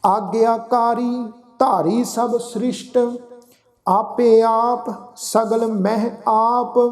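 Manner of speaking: slow, drawn-out sacred recitation; scripture recitation. Acted. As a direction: recite the verse slowly, stretching the vowels.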